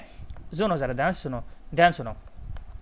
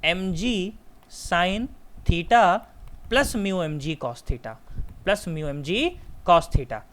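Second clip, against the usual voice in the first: drawn-out terms with pauses between them; slow dictation; much slower than usual. Real, not acted. Teacher giving students the upper limit formula, slowly.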